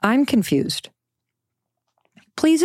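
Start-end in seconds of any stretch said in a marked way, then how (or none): 0.0-0.9 whispered. Shown as a demonstration. Mother repeating her key words to listeners, whispered. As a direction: breathe I'm confused as a hushed whisper. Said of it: "the two most important words".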